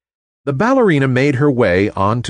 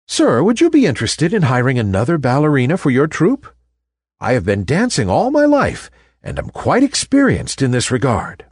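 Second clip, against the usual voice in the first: politely; 3 semitones higher than usual. Acted. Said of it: "she said politely".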